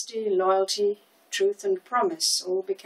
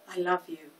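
softly murmured, lovestruck daze; dreamy; 3 dB quieter than usual. A narrator's reading. Peggy repeats his words as she gazes at him, dreamy. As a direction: say it as if lost in his eyes. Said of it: "repeated Peggy in a dreamy tone".

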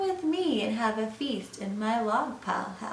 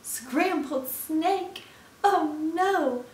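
higher, slow startled repeat; alarmed snake; 7 semitones higher, 3 dB louder, slower than usual. Acted. Snake hears it is Gruffalo's favorite food, alarmed. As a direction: stretch it out in hammed-up horror. Snake learns it may be eaten.

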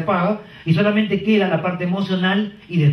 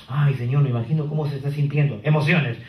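empathetic agent; 3 semitones lower than usual. Shown as a demonstration. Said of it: "Quieren gente que diga".

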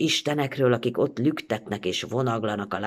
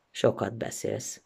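dry remark; 7 dB quieter, slower than usual. Acted. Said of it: "mondta szárazon".

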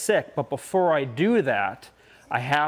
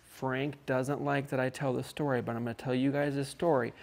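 softer, hushed secret-telling voice; secretive hush; 4 semitones lower, 8 dB quieter than usual. Acted. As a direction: lean in and let them in on a secret.

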